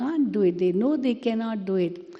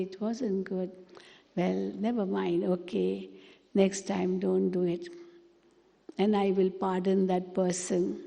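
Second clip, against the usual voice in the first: soft, forgiving and gentle; said with love; 4 dB quieter than usual. Shown as a demonstration. Forgiving a loved one who did wrong, soft and tender. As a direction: forgive them softly, never mind. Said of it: "And I can say with love also".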